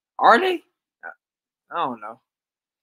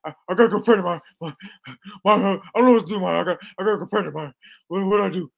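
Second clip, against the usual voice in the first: mock whining; 4 semitones higher, 4 dB louder, much faster than usual. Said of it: "he went crying to Marvin".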